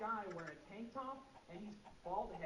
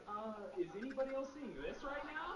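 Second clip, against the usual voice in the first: alarmed; 7 semitones higher than usual. Retold or imitated. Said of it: "you'd be like".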